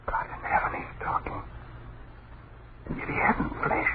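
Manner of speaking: breathless frightened whisper; terrified whisper. Acted. Husband whispering to his wife as they watch the ghosts, terrified whisper.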